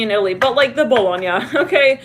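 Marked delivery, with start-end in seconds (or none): 0.8-1.3 playful mock Italian on "Bologna"; light, joking Italian accent. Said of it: "with an Italian accent".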